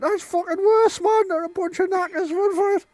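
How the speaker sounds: very high, squealing comic voice; high-pitched mock panic; fleeing gang member. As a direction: yelp it while running away. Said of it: "as they're running away".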